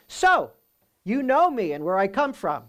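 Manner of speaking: "So" jumps high, then a wry, sarcastic "you know me and where I come from"; ironic. Shown as a demonstration. Preacher showing Jesus's ironic reply to the crowd, wry and sarcastic. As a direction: say it with irony, mocking their claim. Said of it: "or it could be ironic".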